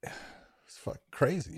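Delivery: breathy, slow awe; awed whisper. Real, not acted. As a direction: breathe it out amazed. Awed remark.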